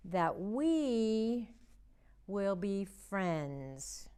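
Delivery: slow, word by word, for signing along; slow signing recital. Shown as a demonstration. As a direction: stretch each word for the signs. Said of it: "do this in sign language".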